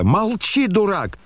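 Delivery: very high-pitched outcry; boyish shout. A narrator's reading. Kolya silences his brother, shouting. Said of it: "закричал Коля".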